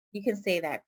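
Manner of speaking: ordinary delivery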